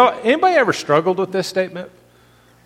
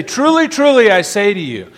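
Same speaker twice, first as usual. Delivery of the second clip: emphatic quote; 2 semitones higher, 3 dB louder than usual. Retold or imitated. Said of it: "you hear Jesus say".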